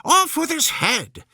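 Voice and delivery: raging Queen. A narrator's reading. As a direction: bark out the order without looking round. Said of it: "only one way of settling all difficulties".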